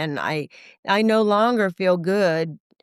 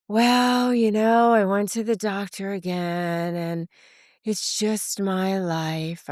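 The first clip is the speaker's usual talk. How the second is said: mopey complaint; 2 semitones higher, slower than usual. Retold or imitated. Friend complaining on phone.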